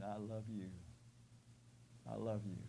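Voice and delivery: soft, low voice of the dying Christ; quiet tender Jesus. Acted. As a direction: say it softly to the listener. Voicing dying Jesus's words.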